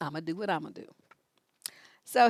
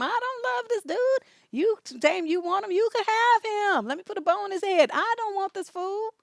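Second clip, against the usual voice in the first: mock jealous woman; 6 semitones higher than usual. Retold quote of jealous woman.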